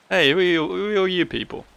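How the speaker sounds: startled villager. Acted. Villager challenges the newly arrived strangers, high and startled.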